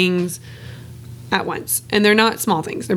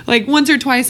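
laughing it off, higher, then a repeat; embarrassed laugh; 5 semitones higher than usual. Real, not acted. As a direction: burst out laughing at yourself, then repeat the phrase. Laughs at crying through tears.

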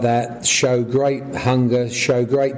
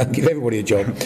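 laughing; much faster than usual. Real, not acted. Joking about Glenn's many mates.

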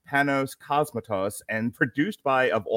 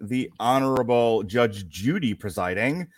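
bailiff voice; 4 dB louder, slower than usual. Acted. Podcast opens as mock courtroom.

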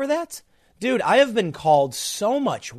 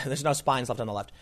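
softer repeat of "there's no spines left on the left" through a laugh; 4 semitones lower, 7 dB quieter than usual. Real, not acted. Host repeating his own joke, laughing softly. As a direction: chuckle at your own line as you say it again.

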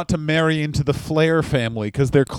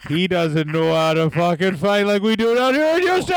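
Tully Blanchard impression; 2 semitones lower than usual. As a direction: ramble like a grumpy old Houston wrestler. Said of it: "Tully Blanchard".

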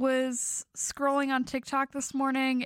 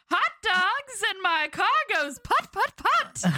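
stadium vendor hawking; 4 semitones higher than usual. Pretend. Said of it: "vendor calls".

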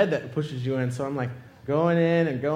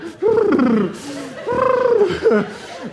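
mock panic noise; 5 dB louder than usual. Noise of freaking out inside machine.

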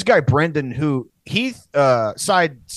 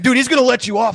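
laughing, higher and louder; 9 semitones higher, 6 dB louder, faster than usual. Retold or imitated. Friends laughing at Edgar's luck, laughing loud. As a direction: blurt it out through laughter. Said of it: "We're like".

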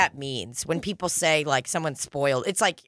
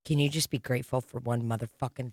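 half-laughing, quieter exasperated plea; laughing exasperation; 6 semitones lower, 5 dB quieter than usual. Retold or imitated. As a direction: laugh through a fed-up question to a kid. Exasperated quote to a child.

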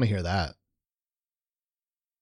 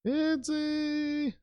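high echo; 8 dB quieter than usual. Real, not acted. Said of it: "host echoes in a high voice".

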